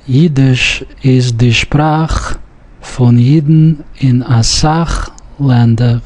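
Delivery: Sprache and Sach with a rough ch; ch sound. Shown as a demonstration. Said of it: "note the pronunciation of ch sound".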